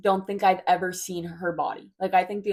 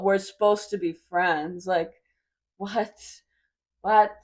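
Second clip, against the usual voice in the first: retold indignation; 4 dB louder, slower than usual. Retold confronting her friend.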